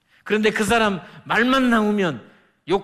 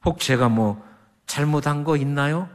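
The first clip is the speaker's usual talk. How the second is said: gentle junior's words; 6 semitones lower than usual. Retold or imitated. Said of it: "또 화를 냈는데".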